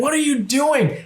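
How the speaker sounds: baffled. Retold or imitated. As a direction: ask it totally baffled.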